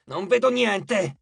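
blinded goddess in a panic; panicked. A narrator's reading. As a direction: wail it out in alarm. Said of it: "colta all'improvviso dal panico".

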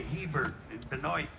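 Hebert and Benoit as said in Maine; Maine pronunciation. Retold or imitated. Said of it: "where they say".

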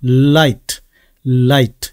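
"light" with a long L, tongue tip firmly on the ridge; firmly attached L. Shown as a demonstration. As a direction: press the tongue up before releasing "light". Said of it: "확실하게 붙여서".

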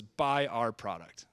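flat, slow half-whisper; bland. Retold or imitated. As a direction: say it with zero energy. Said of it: "with a bland call to action".

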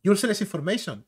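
run-together American English, imitated; mock American delivery; American accent. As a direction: mimic American, all words joined up. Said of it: "Eso lo habla en norteamericano".

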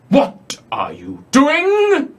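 a slow, breathy whisper from the dark; eerie whisper. Acted. GM voicing a hidden voice to players, slow whisper. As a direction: whisper it slowly out of the darkness. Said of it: "you hear this voice call out in the darkness".

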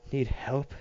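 wheezed out. A narrator's reading. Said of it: "he wheezed out".

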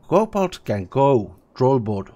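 slow, loud troll proclamation; troll announcing. Acted. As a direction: announce it slowly like a big troll. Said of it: "the troll announces".

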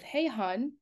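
delicate Southern twang; slight Southern accent. Retold or imitated. Couples therapist rewording a client's words, slight Southern accent. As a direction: imitate a sweet, lightly Southern greeting. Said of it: "a little bit of a Southern accent".

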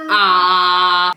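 a loud held ah; playful loud ah for the toddler; shouted ah. Shown as a demonstration. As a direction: call out a long ah. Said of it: "I do tego krzyczą".

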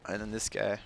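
a burp through the words; words broken by a burp. Real, not acted. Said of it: "Oh, sorry, I burped".

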